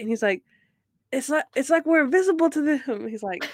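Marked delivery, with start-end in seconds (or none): 1.1-3.1 mock hobo voice. Retelling hobo's repeated line.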